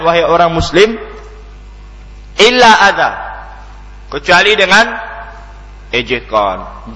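ordinary talk

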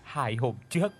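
grieving mother crying out to heaven; understated weeping lament, rising to a high plea; wailing lament. Acted. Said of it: "Bà Đồ khóc váng cả lên".

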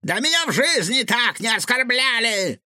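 high, affronted outcry; indignant. A narrator's reading. Insulted cook inside the fridge, indignant. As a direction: protest a grave insult at high pitch. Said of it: "послышался изнутри возмущённый голос".

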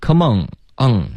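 "Come on, on" ending in ng; back nasal error. Shown as a demonstration. Teacher copying a repeated student mistake, back nasal. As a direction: imitate the learner's "on" as "ong". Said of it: "又是一个on的音了".

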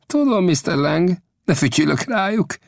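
brushing off the danger calmly; Old Death's voice. Acted. Old Death shrugs off the smith's warning calmly. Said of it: "felelte Old Death nyugodtan".

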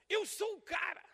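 up high, crooning the hit line; imitating a pop singer. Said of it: "Uma música dele". (imitando o cantor, bem mais agudo)

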